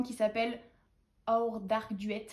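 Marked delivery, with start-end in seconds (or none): 1.3-2.3 slow English title in a French accent; careful French-accented English. Real, not acted. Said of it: "Mon accent anglais".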